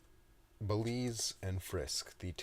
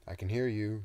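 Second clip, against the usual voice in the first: called back; 4 semitones higher, 5 dB louder than usual. Acted. Toby overhears crew gossip.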